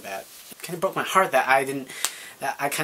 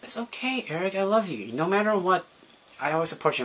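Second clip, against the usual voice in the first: lightly voiced, higher, caring friend; a friend's soothing higher reassurance; reassuring friend; 5 semitones higher than usual. Caitlin comforting Eric after he comes out, a lightly voiced higher reassurance.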